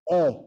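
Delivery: long pure "E" with no glide; long Sanskrit E. Shown as a demonstration. Teacher demonstrating the Sanskrit vowel E, long. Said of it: "it's pronounced as".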